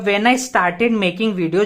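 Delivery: "when I started making video" spoken very slowly; teacher reading the example slowly; slow dictation. Shown as a demonstration. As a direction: read the sentence slowly for students. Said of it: "तो यहाँ पे जब आप देखोगे तो क्या होगा".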